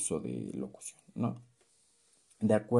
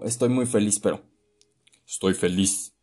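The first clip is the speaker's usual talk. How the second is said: mismatched tone; 5 dB louder than usual. Shown as a demonstration. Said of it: "no concuerda".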